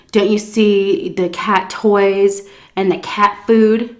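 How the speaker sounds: condescending lecture. Retold or imitated. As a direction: spell it out as if to a child. Old lady lecturing about cat.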